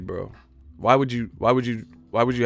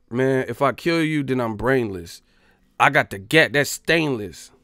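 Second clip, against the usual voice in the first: louder mock gangsta bars; hard rapper parody; 2 semitones higher, 5 dB louder than usual. Showing how he could rap, mock tough bars. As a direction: spit it like a street rapper. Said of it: "let me stop".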